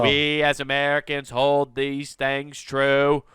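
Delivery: slow, lofty Kennedy-style oration; slow Boston-tinged political oratory; JFK impression. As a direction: deliver it like a grand presidential speech. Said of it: "did J F K".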